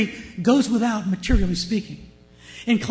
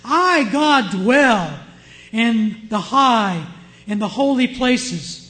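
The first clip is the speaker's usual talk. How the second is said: louder, slow proclamation as God; booming divine voice; 2 semitones higher, 6 dB louder, slower than usual. Acted. Preacher reading God's words from Isaiah, booming.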